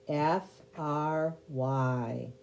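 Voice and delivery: slow letter-by-letter spelling. Shown as a demonstration. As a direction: spell out each letter slowly and clearly. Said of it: "Spell it".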